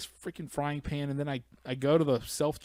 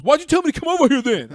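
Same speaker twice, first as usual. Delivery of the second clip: much higher, louder whine; whiny customer voice; 13 semitones higher, 13 dB louder, faster than usual. Retold or imitated. Customer griping at the cashier. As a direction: complain like an annoyed dimwit. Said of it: "And he goes".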